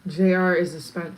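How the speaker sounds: ordinary talk, nothing marked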